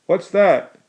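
loud call from the fort. A narrator's reading. Fort guard calling out into the dark. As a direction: shout it from the fort walls. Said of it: "called a voice from the fort".

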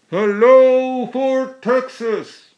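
high, loud, slow hail across the yard. A narrator's reading. Rider hailing the fort from his carriage, long high call. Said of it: "the rider called".

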